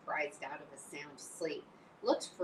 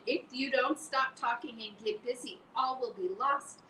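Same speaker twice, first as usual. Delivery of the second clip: higher, louder desperate plea; 6 semitones higher, 6 dB louder than usual. Acted. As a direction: Wilbur begs in desperation. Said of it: "said Wilbur in desperation".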